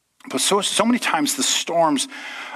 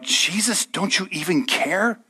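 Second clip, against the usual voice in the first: pleading cry; 5 semitones higher, slower than usual. Retold or imitated. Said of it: "led the disciples to cry out".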